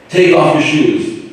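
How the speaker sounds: loud, slow, high mock yell; yelling sign. Son reading dad's door sign as a yell. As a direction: shout the house rule at guests. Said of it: "in a yelling, yelling tone".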